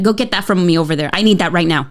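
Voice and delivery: fast, curt mock order; hurried demanding command; bossy demand. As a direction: snap it out like a grouchy mom. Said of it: "I'm just like".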